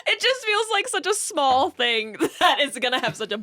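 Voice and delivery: laughing. Real, not acted. Still laughing at milk story.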